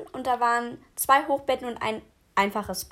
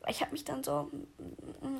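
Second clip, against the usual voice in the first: whispering; 12 dB quieter, much slower than usual. Real, not acted. Whispered aside in retelling.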